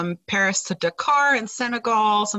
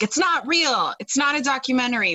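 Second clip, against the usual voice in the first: high, mocking whine of a pedant; mock the nitpicking viewer, pitched up; mocking complainer; 5 semitones higher than usual. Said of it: "For anyone who's like".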